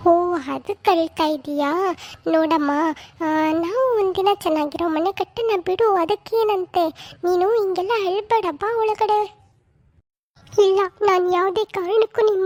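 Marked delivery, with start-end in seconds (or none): 0.1-9.4 lightly voiced older mother, coaxing; a hint of a fussing village mother-in-law; mother-in-law soothing the new bride.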